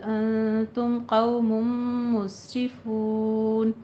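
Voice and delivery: slow chanted tajweed recitation; Quranic recitation. Shown as a demonstration. Teacher recites the full verse for the class, chanted. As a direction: recite it melodically, drawing out the madd. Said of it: "slow re-recitation of verse".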